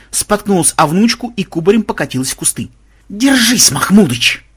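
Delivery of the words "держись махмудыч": high, loud rallying cry; shouting. A narrator's reading. Ksen rushing to help Mahmud, loud shout. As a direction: call out to a comrade in trouble. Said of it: "крикнул Ксен".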